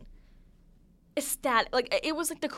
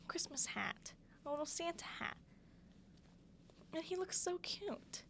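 soft cooing; 6 semitones higher, 13 dB quieter than usual. Real, not acted. Gushing over sweater fox.

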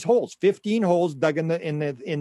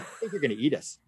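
laughing through the words, trailing softer; 5 dB quieter than usual. Real, not acted. The host laughing at his own alien punchline. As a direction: lose it to laughter on the last words.

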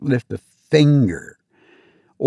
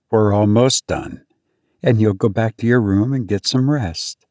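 calm; 2 semitones lower than usual. Acted. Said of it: "She just calmly said".

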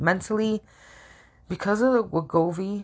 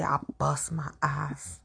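whispered; 5 dB quieter, slower than usual. Real, not acted. Frustrated venting about work.

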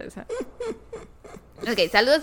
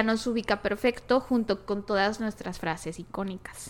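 whispering; 6 dB quieter than usual. Real, not acted. Secret aside to the listeners.

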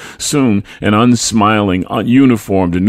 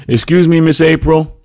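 put-on high, raised, polite boy's voice; polite child; 10 semitones higher, 5 dB louder than usual. A narrator's reading. Boy approaches his mother's friend, politely. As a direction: politely get a grown-up's attention, pitched high. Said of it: "I said politely".

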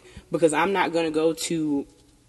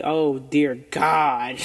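exasperated groan; much slower than usual. Retold or imitated.

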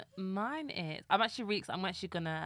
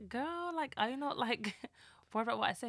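high, teasing disbelief at her friend; incredulous girlfriend quote; 5 semitones higher than usual. Retold or imitated. Retelling asking a friend why she's unbothered, high and incredulous. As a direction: pitch it up, half-laughing, like you can't believe her.

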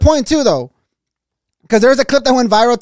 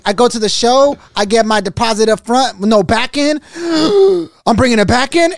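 raised, rhythmic mock rap flow with a gasp; a light rapper impression, pitched up; imitating the freestyle flow; 4 semitones higher than usual. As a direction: rap it back like the clip. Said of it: "that was the flow though".

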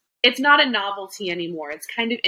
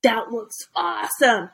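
put-on impressed kids. Host mimics kids reacting to food videos, impressed kids. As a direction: imitate a kid impressed by "awesome". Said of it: "the kids are like".

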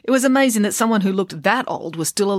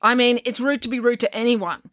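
put-on high boy voice; 5 semitones higher than usual. Finn voiced.

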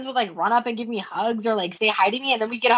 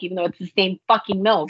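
laughing exasperation; 5 semitones lower than usual. Real, not acted. Laughing at milk complaint.

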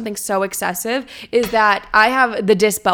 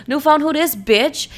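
sassy; 6 semitones higher than usual. Retold or imitated. Reworded sassy reply to the texter.

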